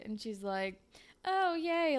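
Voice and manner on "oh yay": high-pitched mock swoon. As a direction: imitate a girl swooning over a serenade. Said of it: "like, swooning".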